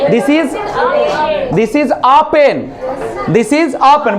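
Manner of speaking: slow model sentence. Shown as a demonstration. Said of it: "बोले कि कलम है".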